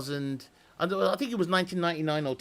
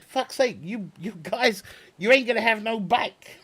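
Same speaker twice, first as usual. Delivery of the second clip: raised pitch, laughing through the words; half-laughing amazement at the riders; a laughing, high "you guys" to the cowboys; laughing disbelief; 6 semitones higher than usual. Retold or imitated. Retold own reaction to bull riding.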